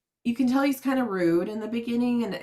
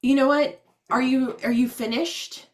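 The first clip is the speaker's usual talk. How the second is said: mock annoyed, louder and higher; annoyed agent; 4 semitones higher, 5 dB louder than usual. Rude agent cutting off a frustrated caller, mock annoyed. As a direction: cut her off like a fed-up agent. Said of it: "And he's like".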